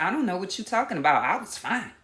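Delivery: quick, brushing-off denial; mock dismissive brush-off. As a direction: wave it away fast. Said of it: "they're probably gonna deny that".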